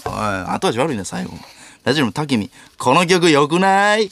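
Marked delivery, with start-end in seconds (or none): 2.8-4.1 slow punchline read. Acted. Reading a last-words answer.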